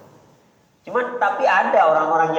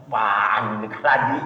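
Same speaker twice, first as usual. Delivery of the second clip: slow, lower indignant question; indignant mothers; 7 semitones lower, slower than usual. Retold or imitated. Mothers scoff at Agim's remarriage, slow and lower. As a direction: scoff like a betrayed fan. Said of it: "disobek foto Agim".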